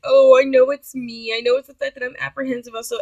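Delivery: mild put-on tearful self-blame; fake crying. Woman placating date with blame, mild fake crying. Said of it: "and I started fake crying".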